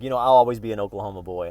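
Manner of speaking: loud, quick brag about home; proud boast. Retold or imitated. Telling the woman where he's from, a loud quick boast. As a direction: announce it with hometown pride. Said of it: "And I'm like".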